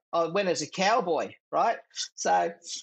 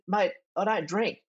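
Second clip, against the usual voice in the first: stuttering protest; 4 semitones higher than usual. Retold or imitated. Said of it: "I said".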